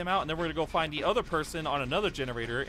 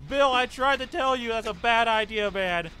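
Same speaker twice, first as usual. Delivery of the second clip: 1 amused scolding; 5 semitones higher, 5 dB louder than usual. Real, not acted. Scolding teammate after death.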